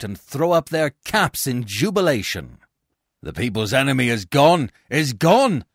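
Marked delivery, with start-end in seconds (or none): 3.2-5.6 fast, rising rejoicing; jubilant cry. Acted. Citizens rejoicing at the banishment, jubilant cry. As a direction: cheer the news. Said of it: "they all cry".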